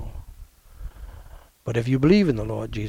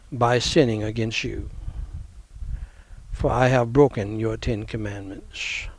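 short phrases with pauses. Shown as a demonstration. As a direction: pause after each phrase to be repeated. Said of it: "Repeat after me, phrase by phrase".

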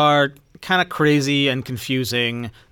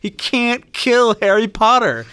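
lightly voiced henchman, higher and slowing at the end; a hint of a grumbling minion losing faith; mock doubtful Death Eater; 7 semitones higher than usual. Death Eaters muttering about their boss, mock doubtful.

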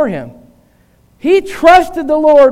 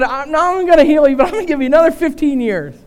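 quick, higher-pitched promise; excited paraphrase; 4 semitones higher, faster than usual. Retold or imitated. Preacher retelling God's promise to the king, quick and excited. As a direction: rattle off the good news eagerly.

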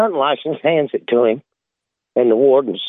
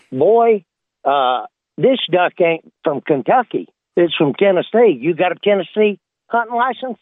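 stern game warden; 4 semitones higher than usual. Retold or imitated. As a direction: play the suspicious Southern lawman. Warden accuses hillbilly.

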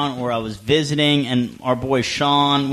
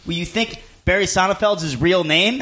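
imitated unbothered retort, pitched higher; deadpan comeback; 4 semitones higher than usual. George answering the bouncer, mock unblinking retort. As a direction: treat the question as obvious. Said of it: "without fucking blinking".

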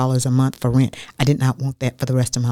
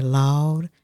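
country dialect; much slower than usual. Retold or imitated. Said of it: "in his country dialect".

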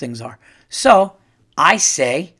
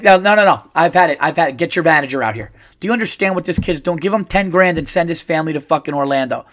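mock boss outrage; faster than usual. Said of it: "undercover boss".

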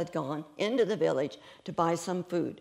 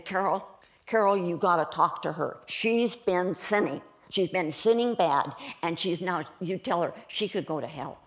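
insistent, louder at first; urgent accusing; 3 dB louder than usual. Retold or imitated. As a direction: press an urgent accusation on her. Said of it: "they mean it".

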